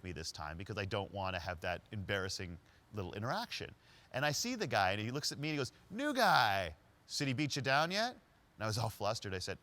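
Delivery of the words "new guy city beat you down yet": louder and higher, a teasing call-out; Larry's greeting. Retold or imitated. Larry greets the driver at the stoplight, loud teasing call. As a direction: hail the new guy from the street.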